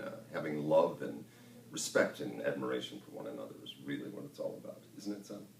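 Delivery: lightly voiced TV dad; fatherly character voice. Dad explaining family values to his son, lightly fatherly. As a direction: explain it gently, a hint of a father. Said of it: "In your character voices".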